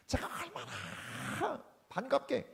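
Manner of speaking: breathy whispered aside. Real, not acted. Pastor confiding how warmly he greeted, whispering.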